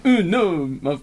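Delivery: bad high Italian accent. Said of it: "Is that your Italian?".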